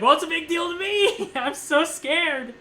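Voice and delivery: high-pitched, loud panicky protest, half laughing; mock panic. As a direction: whine in exaggerated fright, stretching the words out. Retells panicking before the surgery.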